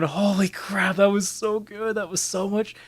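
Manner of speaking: a light mock of cheering teammates; imitating delighted players. Gamer imitating lobby players cheering the kill cam. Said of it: "they're all going".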